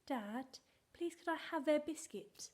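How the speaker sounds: put-on a sweet asking child; sing-song child asking. Shown as a demonstration. Child asking mum for a drink, sing-song. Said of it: "He wants us to sound silly".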